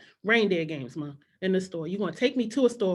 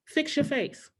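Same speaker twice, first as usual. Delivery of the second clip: higher, stern mom scolding; mom's stern line; 6 semitones higher, slower than usual. Retold or imitated. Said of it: "another one she would say all the time".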